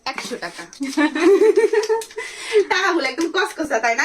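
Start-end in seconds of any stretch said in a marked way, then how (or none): 0.7-2.6 bright burst of laughter; delighted laugh. Real, not acted. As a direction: laugh out loud with joy. Finds another hundred taka. (আনন্দের হাসি)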